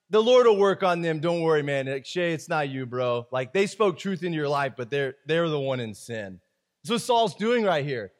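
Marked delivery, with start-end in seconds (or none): 0.1-6.4 dismissive churchgoer shrugging off a rebuke, low and hushed; smug brush-off. Retold or imitated. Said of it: "you must have thought".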